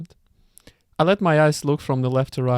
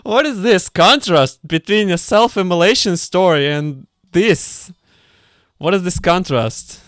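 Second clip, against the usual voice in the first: slow, louder, higher with laughter; amused disbelief; 4 semitones higher, 5 dB louder, slower than usual. Real, not acted. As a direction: marvel at the absurd switch, laughing.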